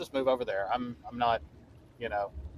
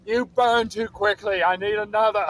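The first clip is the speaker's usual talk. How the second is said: high, loud in-character yell; screamed complaint; 8 semitones higher, 6 dB louder than usual. Acted. Player's character yells after a fleeing goblin, acted scream. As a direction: yell it out at a raised pitch. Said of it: "just screams like".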